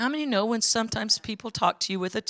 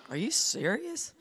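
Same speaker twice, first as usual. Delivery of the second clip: laughing disbelief; 3 semitones higher, 10 dB quieter than usual. Retold or imitated. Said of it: "They're like".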